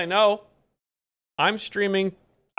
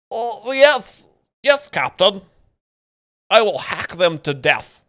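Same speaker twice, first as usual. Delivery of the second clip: nerdy AI voice, higher and louder; Claude; 5 semitones higher, 6 dB louder than usual. Acted. AI assistant taking a war order from its captain, nerdy impression. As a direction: obedient nerdy robot helper answering the captain. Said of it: "My best Claude impression".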